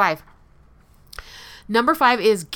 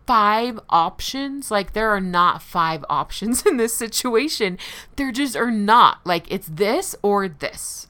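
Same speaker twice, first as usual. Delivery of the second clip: incredulous scoff; 2 semitones higher, 3 dB louder than usual. Retold or imitated. Scoffing at the therapist's question.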